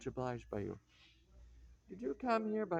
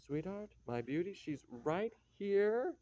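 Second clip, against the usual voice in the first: gushing; 5 semitones higher than usual. Acted. Grandmother gushing over girl.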